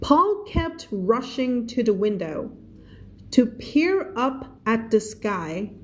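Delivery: slow, measured English reading; story read-aloud. Acted. Teacher reading a story to English learners, slow read-aloud.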